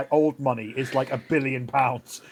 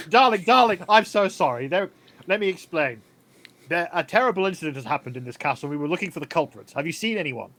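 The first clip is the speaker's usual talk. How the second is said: light, gushing society-lady voice; posh 1920s lady. Acted. Kathy explaining herself to the frightened maid, gushingly. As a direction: coo over her like a grand dame. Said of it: "she's just like".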